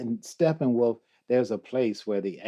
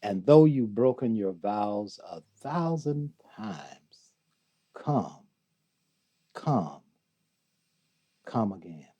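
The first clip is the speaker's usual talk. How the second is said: hushed recitation. Acted. Guest closes Rumi's poem, hushed recitation fading away. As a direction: let the verse die away with long pauses.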